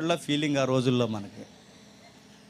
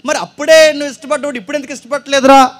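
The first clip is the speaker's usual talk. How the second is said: louder, higher ribbing question; a raised, higher teasing jab; teasing challenge; 9 semitones higher, 11 dB louder than usual. Retold or imitated. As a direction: poke fun at him loudly. Mock challenge to friend.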